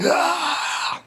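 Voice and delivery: high mock yelp of a psycho; sudden high strangled "Ah"; psycho guy's cry. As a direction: yelp it like a crazed guy. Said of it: "you know, like that".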